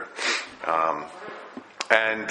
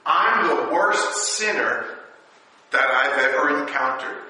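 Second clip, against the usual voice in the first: Paul's confession; 7 semitones higher, 4 dB louder than usual. Retold or imitated. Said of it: "He says".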